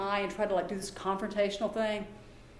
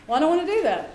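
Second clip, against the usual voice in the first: whiny refusal; 6 semitones higher, 8 dB louder, faster than usual. Retold or imitated. Child refusing, voiced by speaker.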